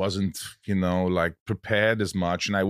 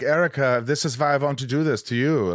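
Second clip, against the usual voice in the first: put-on playful, raised German-accented line; mock German accent; 4 semitones higher than usual. Imagining the brother's film take, mock German accent. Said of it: "he just started doing it like this".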